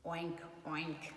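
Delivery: oink. Acted. Recalling pig noise.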